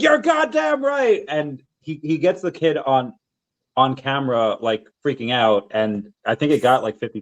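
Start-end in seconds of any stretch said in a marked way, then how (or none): 0.0-1.2 slow, pitched-up mock Nicholson rant; a light imitation of the movie yell; Jack Nicholson impression. Replaying the prank video, a light mock Nicholson yell. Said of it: "Jack Nicholson goes crazy".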